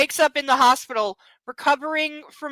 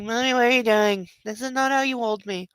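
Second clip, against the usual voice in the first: voicing the dog; 5 semitones lower than usual. Owner voicing her sleepy dog complaining about being held. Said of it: "He's like".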